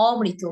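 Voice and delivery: অমৃত as "o-mrito"; একক ম. Shown as a demonstration. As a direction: open vowel, single m in অমৃত. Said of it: "কি হবে?". ("অমৃত" বলো অ-মৃত)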